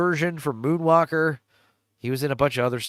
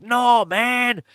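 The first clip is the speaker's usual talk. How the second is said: put-on lightly done stereotypical Latino accent, higher and slower; a hint of a Latino street guy, drawn out; 7 semitones higher, much slower than usual. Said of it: "in this stereotypical Latino accent".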